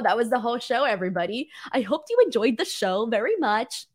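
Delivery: lightly put-on English accent. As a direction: sign off in a faint mock English accent. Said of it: "why does my English accent sound like that".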